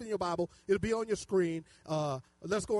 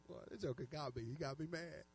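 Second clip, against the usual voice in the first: soft, low admission to oneself; quiet, retold confession; rueful aside; 5 semitones lower, 12 dB quieter than usual. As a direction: drop the voice and own up. Retold rueful remark to self in prayer.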